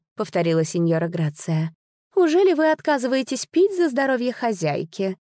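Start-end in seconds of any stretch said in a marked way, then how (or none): 2.1-5.2 higher-pitched, with anger held in; concealed anger. A narrator's reading. Hostess pressing a guest to drink her health, concealed anger. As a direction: let a touch of anger show under the courtesy. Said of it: "В голосе дамы послышался затаённый гнев".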